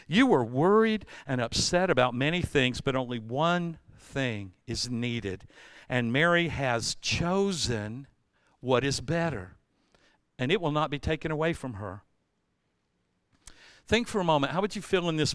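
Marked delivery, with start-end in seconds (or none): 0.1-12.0 lightly voiced Jesus, calm; gentle, quiet. Jesus answering Martha, quiet and gentle. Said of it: "the Lord answered".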